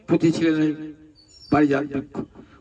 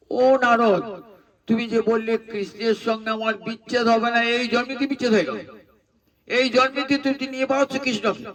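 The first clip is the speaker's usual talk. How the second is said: higher, urgent queen's reproach; Satyabhama's lament; 5 semitones higher than usual. Acted. The queen confronts Narada after losing Krishna, higher and reproachful. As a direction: cry out at the sage, betrayed and pleading. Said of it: "তখন হুঁশ হয়েছে সত্যভামার".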